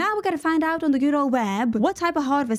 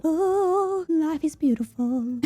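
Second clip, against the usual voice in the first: sarcastic cheer; 4 semitones higher, much slower than usual. Real, not acted. Sarcastic after stubbing toe.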